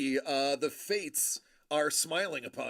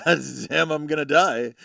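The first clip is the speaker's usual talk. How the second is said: louder, half-joking wail of doom; mock dramatic despair; 8 dB louder than usual. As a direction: ham up his dread of dying. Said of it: "he's like".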